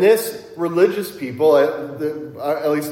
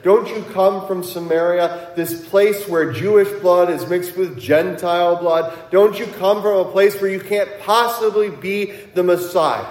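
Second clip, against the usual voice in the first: louder, higher, insistent challenge; accusing challenge; 5 semitones higher, 4 dB louder than usual. Retold or imitated. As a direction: press the accusation as pointed questions. Acting out the Jews' challenge to Jesus.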